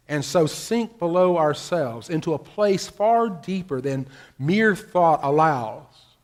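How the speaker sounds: measured, emphatic recitation with drawn-out phrases; formal reading. Acted. Preacher reading an essay on silence to the congregation, measured and emphatic. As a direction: read it out slowly and with weight. Reads an essayist's words aloud.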